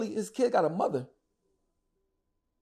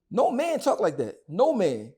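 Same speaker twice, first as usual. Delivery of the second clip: slow, drawn-out, louder insistence; emphatic indignation; 4 semitones higher, 5 dB louder, much slower than usual. Real, not acted. Host condemning a man's talk about someone's son, emphatic indignation. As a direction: stretch NO MAN out with force.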